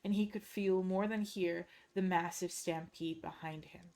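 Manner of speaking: steady, measured storyteller read; story narration. A narrator's reading. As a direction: carry the listener through the dark scene. Reads a dark fantasy story aloud.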